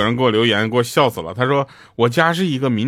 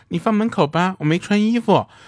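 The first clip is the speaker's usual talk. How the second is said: put-on sweet, high, cutesy girl's voice; 7 semitones higher than usual. Retelling a delivery where a young woman answered through the door: imitating a cute girly voice. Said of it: "一个妹子在里面萌萌的说".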